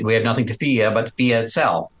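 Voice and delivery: put-on FDR's Northeastern accent with dropped R's. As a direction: drop the R in "fear", old Northeastern style. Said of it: "didn't pronounce an R. Like, you know, F D R said".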